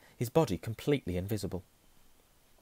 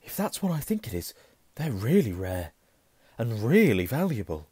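rising, loud excitement; excited; 2 semitones higher, 7 dB louder than usual. Acted. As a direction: gush about the rare find. Ron excited about the cloak.

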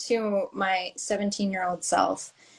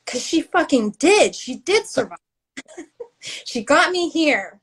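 tearful; 6 semitones higher, 3 dB louder than usual. Real, not acted. Emotional, voice rising.

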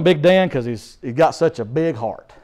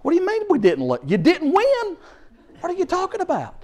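much higher, incredulous rant; hammed-up ranting, high pitched; ranting father; 12 semitones higher than usual. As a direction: rage at him in disbelief. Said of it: "I said".

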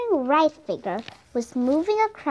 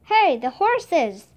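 raised, drawn-out alarm call; higher, louder, slow holler; shouted; 4 semitones higher, 5 dB louder, slower than usual. A narrator's reading. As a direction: shout a warning across camp. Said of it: "a rustler shouted".

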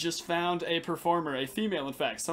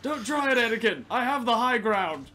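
raised, mock-dramatic movie warning; Star Wars quote; 4 semitones higher, 4 dB louder than usual. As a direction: deliver a hammed-up film hero's warning. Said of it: "never even seen Star Wars".

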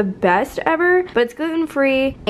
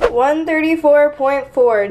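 reading the scale louder and slowly, thrilled; excited weigh-in readout; 3 semitones higher, 5 dB louder, slower than usual. Real, not acted. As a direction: announce the number with pride, drawn out. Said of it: "as you just saw".

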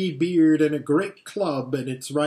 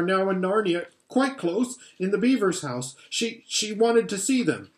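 put-on higher, fast, eager boy; young boy Edmund; 5 semitones higher than usual. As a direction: blurt it out hurriedly to please.

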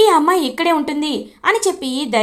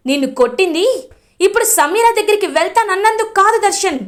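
high, heated rebuke of her son; angry scolding; 5 semitones higher than usual. Acted. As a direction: scold him with disgust, pitched up. Mother scolds son after slap.

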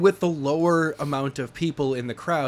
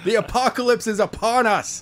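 mock doomsday cry; 6 semitones higher than usual. Mock apocalypse proclamation.

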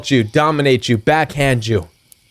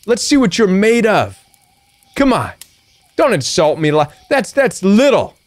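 raised, daring "come on" challenge; chest-out defiance; defiant taunt; 3 semitones higher than usual. Pretend. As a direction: dare the bully to hit harder. Defiant reply to a backhand slap.

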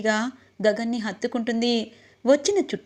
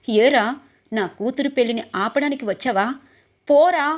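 angry father; 4 dB louder than usual. Acted. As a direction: drive the boy away in anger. Father throws nephew out of wedding. (కోపంగా అరిచే తండ్రి)

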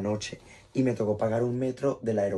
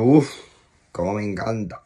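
mock delight; 7 dB louder than usual. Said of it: "que tú digas, yo".

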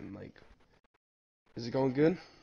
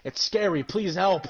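higher-pitched mock plea for help; retold panicked plea; 4 semitones higher, 3 dB louder, slower than usual. Begging a friend for help while tripping, mock panic. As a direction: beg for help, a touch panicked.

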